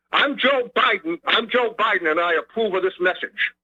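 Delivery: lightly voiced candidate's ad sign-off; mock campaign endorsement with a Boston accent; Joe Biden. Caller ending his impression for the host, mock-official candidate sign-off. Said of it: "I'm just doing an impression of him".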